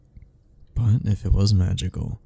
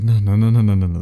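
louder, panicked run of no's; frantic denial, voice pushed louder; rising panic; 5 dB louder, faster than usual. Acted. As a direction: panic as it sinks in that you're trapped. Realizing the elevator is stuck.

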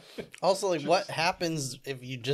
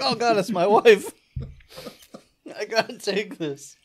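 hammed-up businessman; 6 semitones higher, 7 dB louder than usual. Acting out the killer-desk call.

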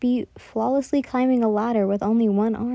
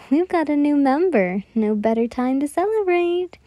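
higher, hearty holler to the crew; 4 semitones higher than usual. Acted. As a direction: shout it to celebrate. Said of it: "she hollers".

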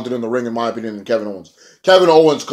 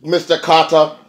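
higher, slower, whiny retelling of Spud; imitating Spud higher and slower; high mock Spud voice; 6 semitones higher, 5 dB louder, slower than usual. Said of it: "And Spud's like".

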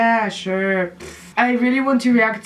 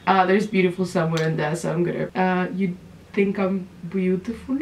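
mock actress; 2 semitones lower, 3 dB quieter than usual. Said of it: "She's like".

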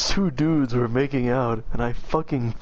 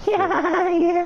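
laughing; 4 dB louder than usual. Real, not acted. Laughing high agreement.

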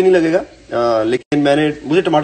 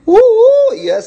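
excited ooh; 5 dB louder than usual. Real, not acted. Teasing new album collaborations.

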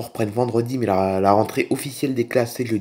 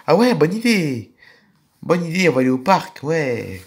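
lightly voiced eager child; child Peggy. Child agreeing to father's park idea, lightly voiced and eager. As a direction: sound pleased, like a child off on an outing.

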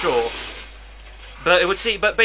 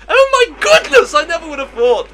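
sweet wide-eyed ingenue; 12 semitones higher, 8 dB louder than usual. Pretend. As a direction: swoon it like a starry-eyed maiden. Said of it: "why did I sound like that?".

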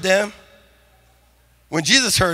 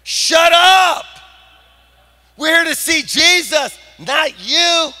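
higher, sharp crowd retort; crowd yelling; 6 semitones higher, slower than usual. Retold or imitated. Crowd telling beggars to shut up, raised voice. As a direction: shove him aside with it. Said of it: "the crowd yelled at them".

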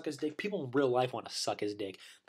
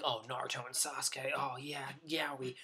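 mock fangirl swoon; 7 dB quieter than usual. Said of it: "fangirls are like".

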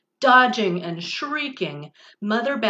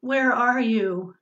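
put-on lightly squeaked lost baby; 3 semitones higher than usual. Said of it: "Stella Luna squeaked".

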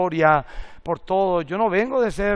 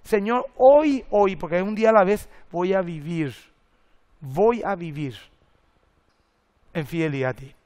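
quoted prayer. Retold or imitated. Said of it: "Qué es lo primero que viene a mi mente".

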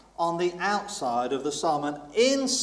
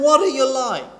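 questioning God; 7 semitones higher, 5 dB louder than usual. Retold or imitated. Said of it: "So he's saying".

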